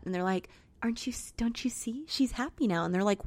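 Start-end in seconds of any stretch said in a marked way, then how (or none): 0.8-2.8 soft, half-whispered retold plea; hushed persuasion. Film host persuading upset guests, hushed. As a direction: gently coax them to understand.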